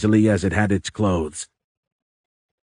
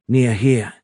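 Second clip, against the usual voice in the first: higher-pitched, halting alien accusation; 4 semitones higher, 3 dB louder than usual. A narrator's reading. Alien corrects Tony about the bomb, halting. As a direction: separate each word while searching for the next.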